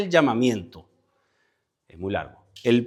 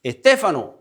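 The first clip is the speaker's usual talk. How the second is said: high, raised call by name; calling someone over; 5 semitones higher, 4 dB louder than usual. Shown as a demonstration. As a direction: summon them toward you, pitch jumping up. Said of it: "Te está llamando".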